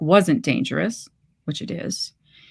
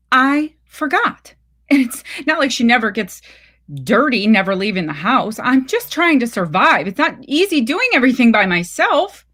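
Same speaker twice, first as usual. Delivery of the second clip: defensive; 5 semitones higher, 3 dB louder than usual. Acted. Mother defends herself on phone.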